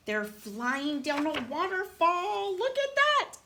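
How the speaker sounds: rising to a high exclamation; playful shock. Pretend. Reader shows child the waterfall, amazed. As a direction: build to an amazed squeal.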